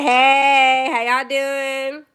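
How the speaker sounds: very loud, slow, sing-song hey; cheery stream greeting. Retold or imitated. Streamer imagining greeting viewers from work, loud bubbly hello. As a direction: burst in bored-at-work turned bubbly. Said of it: "I'll be like".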